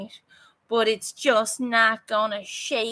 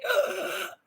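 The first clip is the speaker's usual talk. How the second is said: mock gasp; 10 semitones higher, 5 dB quieter than usual. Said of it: "Or I can sit here and say".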